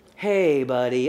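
lazy, very slow drawn-out Texas drawl. Imitating a friend from texas answering the phone: imitating a slow texas drawl. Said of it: "so slow. So Texas slow".

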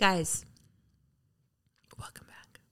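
whispering, low. Welcoming listeners back to the episode, whispering. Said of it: "Why are we whispering?".

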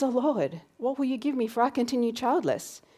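put-on anxious voice. Retelling Abram's reply to God, imitating anxious Abram. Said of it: "this anxious voice coming out of Abram".

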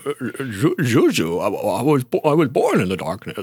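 put-on slow drawl with stammering. Recalling a bit a friend named Theo did: Jimmy Stewart doing Bane. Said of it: "I just did an impersonation of Theo doing an impersonation of Jimmy Stewart doing an impersonation of".

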